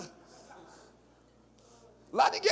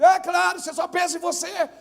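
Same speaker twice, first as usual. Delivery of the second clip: loud, high accusing retort; mock angry shout; 6 semitones higher, 7 dB louder than usual. Pastor scolding church member, loud mock anger.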